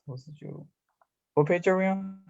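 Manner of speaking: ordinary talk, nothing marked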